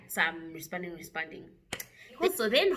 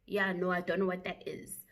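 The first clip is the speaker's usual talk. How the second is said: unbothered, softer reply; relaxed; 5 dB quieter than usual. Retold or imitated. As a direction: answer casually, keeping it cool. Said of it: "I'm still relaxed".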